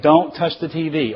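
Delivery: touch of stern parent; strict parental warning. Acted. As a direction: warn a two-year-old off. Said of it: "the way you do that is".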